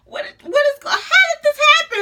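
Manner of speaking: high, stammering mock wail; panicked disbelief. Retold panic during labour pains.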